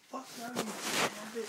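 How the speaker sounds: loud, high bouncer impression; mock indignant yell; retold outraged refusal. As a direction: shout the refusal back as the bouncer, drawn out.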